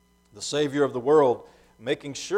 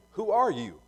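higher-pitched questioning, read aloud; pointed question; 7 semitones higher than usual. A narrator's reading. Questioners' line in Scripture reading.

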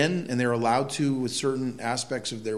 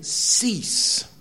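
whispered; 8 semitones higher than usual. Acted. Reading verse, final word.

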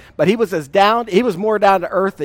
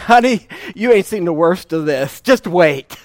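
teasing warning to wife. Retold or imitated. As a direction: rib your young bride with a grin. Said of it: "what I was saying to my future wife".

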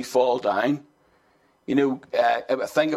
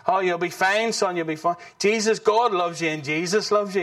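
higher, breezy mock reassurance from bed; casual dad brush-off; 5 semitones higher than usual. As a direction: brush the kid off lightly, can't be bothered. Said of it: "he was cool".

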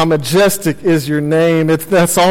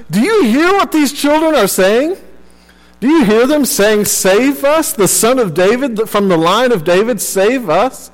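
higher, pressing indignant question to Jesus; indignant priests; 5 semitones higher than usual. Retold or imitated. Chief priests complaining to Jesus, higher and indignant. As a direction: needle him like offended priests. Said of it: "they became upset".

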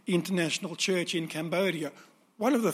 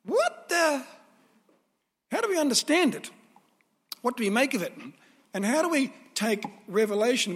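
baffled question, voice pitched up; puzzled reader. Retold or imitated. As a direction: ask it like a confused reader. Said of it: "as suggested".

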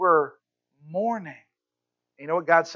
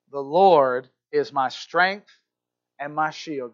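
calmly; 3 semitones lower, slower than usual. Shown as a demonstration. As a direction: say it like lying in bed at rest. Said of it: "you get to calmly say".

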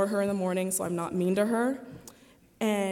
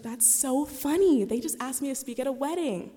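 amused mom; 5 semitones higher than usual. Retold or imitated. Mom on the phone, amused and higher. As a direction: voice mom, tickled by the coincidence.

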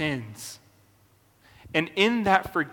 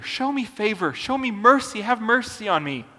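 higher-pitched, pleading prayer; retold plea, raised in pitch; praying plea; 3 semitones higher than usual. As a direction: plead for mercy, voice lifted. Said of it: "Jesus prayed for favor".

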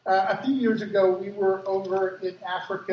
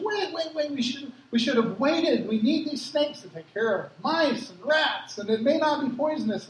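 high-pitched mock pleading; acted-out objection, pitched up; imitated protest; 5 semitones higher than usual. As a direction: plead the case like the flustered field agent. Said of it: "Franco comes over and he goes".

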